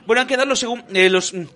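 fumbling TV hostess. Retold or imitated. Hostess flubbing the results to her co-presenter, flustered imitation. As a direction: trip over the line and apologise. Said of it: "hay un corte y dice".

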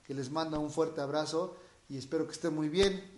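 hoarse, raspy speaking voice; rough raspy voice throughout. Real, not acted. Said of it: "esta voz aguardentosa".

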